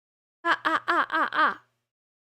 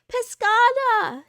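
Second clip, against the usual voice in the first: drawn-out excited greeting; 7 semitones higher, 4 dB louder, slower than usual. Real, not acted. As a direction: stretch the name out slowly, thrilled.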